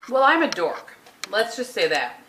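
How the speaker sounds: chewing while talking; talking through a bite of protein bar; mouth full. Real, not acted. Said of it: "I'm eating a protein bar".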